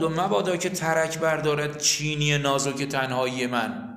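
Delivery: slow, drawn-out verse reading; poem recitation. Acted. Teacher reciting a gravestone poem to the class, slow recitation. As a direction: recite the line slowly and evenly.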